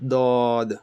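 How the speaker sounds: dod pressed on both sides. Shown as a demonstration. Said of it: "or both of them".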